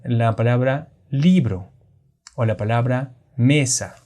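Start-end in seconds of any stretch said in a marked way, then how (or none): 1.1-1.7 "libro" with the force on li; stress on LI. Shown as a demonstration. Teacher giving an example of unwritten accent, "libro" stressed on li. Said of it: "li y me son las sílabas tónicas". 3.4-4.0 "mesa" with the force on me; stress on ME. Shown as a demonstration. Teacher giving an example of unwritten accent, "mesa" stressed on me. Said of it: "li y me son las sílabas tónicas".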